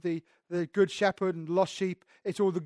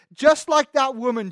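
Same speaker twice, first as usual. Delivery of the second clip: emphatic Jesus; 4 semitones higher, 7 dB louder than usual. Retold or imitated. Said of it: "Jesus says".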